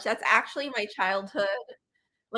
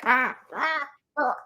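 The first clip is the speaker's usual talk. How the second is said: mock moans; 4 semitones higher, 5 dB louder, slower than usual. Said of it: "It's like".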